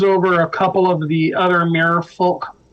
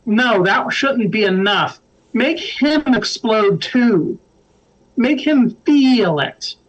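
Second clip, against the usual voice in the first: slow, drawn-out demand pitched higher; scowling; 4 semitones higher than usual. Acted. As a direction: scowl through each drawn-out word as a vengeful mirror creature. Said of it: "scowls and says".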